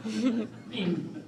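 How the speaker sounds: mock-awed, laughing through it; sarcastic. Son praising father's white band, laughing sarcasm. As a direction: gush with fake admiration.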